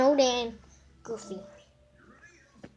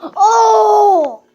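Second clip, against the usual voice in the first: laughing; 4 semitones higher, 4 dB louder than usual. Real, not acted. Laughing at cartoon.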